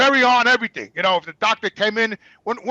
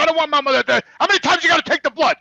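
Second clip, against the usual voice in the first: higher, exasperated demand; angry protest; 5 semitones higher, faster than usual. Retold or imitated. Son objecting to another blood draw, angry. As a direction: argue heatedly, fed up. Acted quarrel with nurses.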